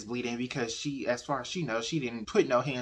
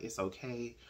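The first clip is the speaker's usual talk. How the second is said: comforting; 7 dB quieter than usual. Retold or imitated. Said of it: "he's basically comforting her".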